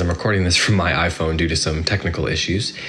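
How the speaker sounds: echoing tunnel sound; recorded on a phone, like in a tunnel. Real, not acted. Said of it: "if I sound like I'm in a tunnel".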